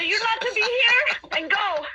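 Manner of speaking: slow, high attempt at French; attempted French accent. Caller ordering ghost away, slow makeshift French accent. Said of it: "in a French accent say".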